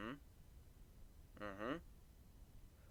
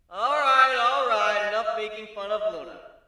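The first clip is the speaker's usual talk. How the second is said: brisk emcee; 7 semitones higher, 8 dB louder than usual. A narrator's reading. Narrator as host sending the princesses offstage. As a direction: shoo them offstage like a host.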